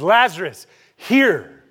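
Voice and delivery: a summons into the grave; commanding call. Acted. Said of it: "'Cause Jesus says".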